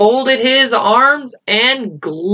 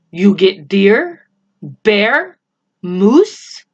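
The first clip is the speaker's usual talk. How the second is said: Little Bear demanding; 3 dB louder, much slower than usual. A narrator's reading. Indian chief demands food.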